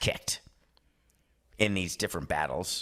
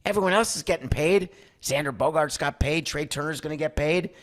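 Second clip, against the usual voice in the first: indignant player; 6 semitones higher than usual. Retold or imitated. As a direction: play the player who feels left behind. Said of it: "Correa will look at Scotty Boras and say".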